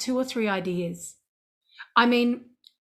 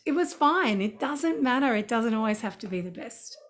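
ordinary delivery

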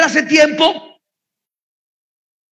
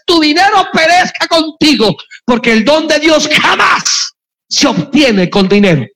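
shouted rebuke. Pretend. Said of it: "Le deberíamos gritar a algunos predicadores".

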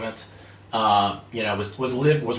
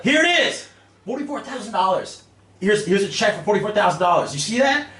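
much higher and louder, laughing as he shows off the check; excited gloating; 10 semitones higher, 4 dB louder than usual. Retold or imitated. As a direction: shove the check in the boss's face, giddy and loud. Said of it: "I was so excited".

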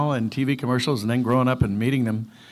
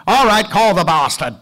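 exasperated producer; 7 semitones higher, 6 dB louder than usual. Retold or imitated. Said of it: "and they go".

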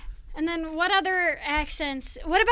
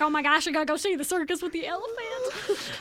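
put-on Southern little-kid excitement; lightly voiced Southern child; Southern accent. Little kid hearing the circus is coming, Southern accent. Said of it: "we had a Southern accent, and I was, like, a little kid".

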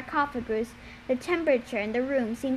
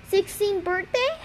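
taken aback; 7 semitones higher than usual. A narrator's reading. Startled echo of Luke's words.

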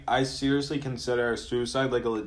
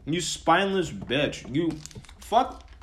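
higher-pitched cursing, drawn out then punched; real angry insult; 5 semitones higher, slower than usual. Real, not acted. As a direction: spit insults at an absent politician, slowly rising. Ranting at an absent senator.

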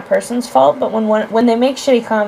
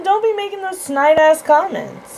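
seething anger; 8 semitones higher, slower than usual. Real, not acted. Repeats angry rebuke.

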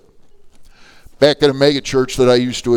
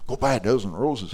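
softer, incredulous repeat of the instruction; puzzled echo; 5 dB quieter than usual. Retold or imitated. Lady questions pastor's odd assignment, puzzled. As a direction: echo it back in quiet disbelief.

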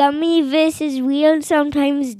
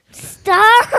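upset cry; 8 semitones higher, 5 dB louder than usual. Real, not acted. Kid protests loudly at start.

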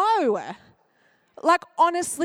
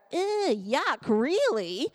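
disgusted judging; slower than usual. Acted. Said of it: "speak into someone's life and go".

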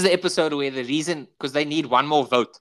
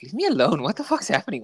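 higher, exasperated retold complaint; mock exasperation; 5 semitones higher than usual. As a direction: act out being pestered on the phone. Retelling Jerry annoyed by phone calls.

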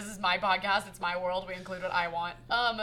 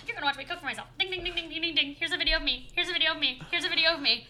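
mocking TikTok chef; 8 semitones higher, 4 dB louder, faster than usual. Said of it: "search fucking H Woo Lee on TikTok, and it's like".

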